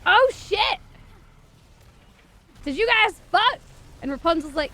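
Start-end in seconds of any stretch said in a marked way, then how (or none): 0.0-3.6 much higher and louder mock shriek; a scandalised mom catching them out; hammed-up shocked outburst; shocked mother yelling. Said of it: "comes back and she's like".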